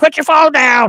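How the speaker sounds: shrill, barked, very high-pitched yelling. Imagining a road sign that yells at phone users: imitating an ai sign yelling. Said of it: "yell at you in different voices".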